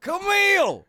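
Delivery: piercingly high, loud mock scream; Bill Cosby. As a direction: holler for the wife, stretching it out. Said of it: "screaming at his wife".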